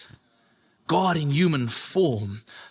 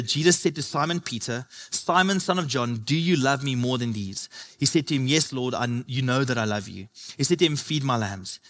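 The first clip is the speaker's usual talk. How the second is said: scripture reading; 3 semitones lower than usual. Acted. Reads John 21 dialogue slowly.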